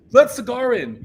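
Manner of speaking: high, loud retold demand; mock angry shout; Fletcher. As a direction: bellow an order at the gatekeeper, imitating. Fletcher orders the gatekeeper.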